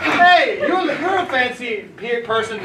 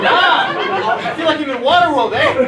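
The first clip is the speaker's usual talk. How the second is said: put-on Canadian accent; 3 semitones higher, slower than usual. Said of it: "we stopped those accents".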